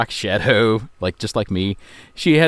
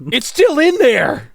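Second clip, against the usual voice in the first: laughing; 12 semitones higher, slower than usual. Real, not acted. Laughing remark high slow.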